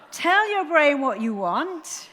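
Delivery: loud, high, slow exhortation; rallying call. Real, not acted. Speaker summing up to her audience, rallying call. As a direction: call it out to the whole crowd.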